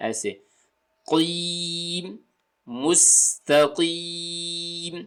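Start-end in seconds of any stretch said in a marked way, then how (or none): 1.1-4.9 مستقیم with a heavy ق and a thin ending; light final vowel. Shown as a demonstration. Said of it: "زیر کی آواز باریک ہو جائے گی".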